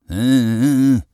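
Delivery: high, loud agitated äh äh äh; excited cry. A narrator's reading. Father fending off sugar attack, agitated. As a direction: squawk in alarm like a flustered old man. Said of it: "ruft er aufgeregt".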